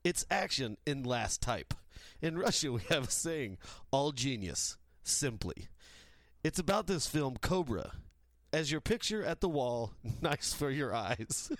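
mock Russian accent reading; broken English in a Russian accent. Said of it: "Sorry my, for my bad English".

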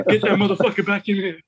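like spotting a rich mark and wanting him back; excited call to bring him back. Retold or imitated. Telling the poker table to bring a singer's son back, high and eager. Urging the table to reclaim winnings.

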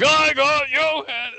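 high, loud, thrilled yelling of a card find; excited shout. Retold or imitated. Friend in the outback shouting about his rare card, high excited yell. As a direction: shout it like you just pulled the rarest card. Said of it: "holding up a playing card going".

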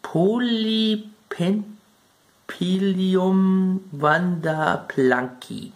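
careful reading out. Real, not acted. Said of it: "Sorry, ich muss das ablesen".

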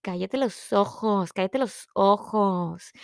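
slow, quiet, amazed; slow stunned mutter; stunned disbelief. Retold or imitated. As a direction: let it sink in, slowly. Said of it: "Y yo".

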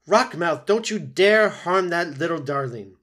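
high, loud furious threat; the goose warning off the pike; fierce old goose. Acted. Loudwing attacking the pike.

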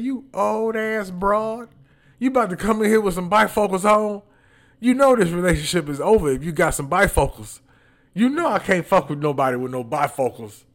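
mock outrage. Husband teasing wife about bifocals.

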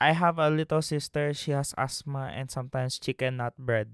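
exaggerated Filipino accent. Speaker mocking what people expect of him, put-on Filipino accent. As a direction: play up a stereotyped Filipino accent. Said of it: "That's what they expect me to sound like".

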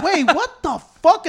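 slow, high, stunned what the fuck; mock shocked double take; retold disbelief. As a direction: drag it out, baffled. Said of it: "I'm like".

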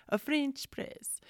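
high, slow, badly faked French accent; mock French accent. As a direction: draw it out in a playful fake French accent. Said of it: "that's not even a French accent, but today it is".

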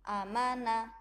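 loud clipped demo. Shown as a demonstration. Teacher modeling short clipped syllables for pupils. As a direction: hammer out every word short and strong. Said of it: "Bunda contohkan satu kali lagi".

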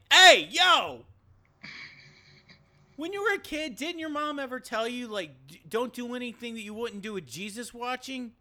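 high, loud hammed-up scolding; mock scolding shout. Ghost Jesus catching Luke, hammed-up high scolding yell. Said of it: "and you're like".

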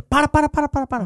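high, loud TV-host "para, para, para" catchphrase; hammed-up imitation of a TV host halting the scene; João Kleber impression. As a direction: stop everyone like a showman TV host. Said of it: "Agora fazer igual o João Kleber".

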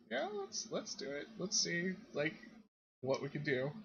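conspiratorial look voiced. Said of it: "kinda gives you this look of".

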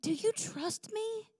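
slow, high, probing question; God's question. Retold or imitated. God challenging a weeping mother, slow searching question. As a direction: ask it deliberately, word by word. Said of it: "God says".

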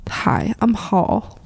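slow, lightly voiced movie computer; measured computer impersonation; HAL. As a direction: greet like an artificial intelligence, drawn out. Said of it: "It sounded like".

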